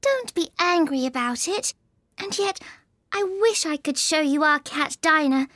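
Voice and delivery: high-pitched coaxing voice; placating, fond chatter in a high voice; soothing Alice. A narrator's reading. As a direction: coax the offended mouse gently, high. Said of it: "said Alice in a soothing tone".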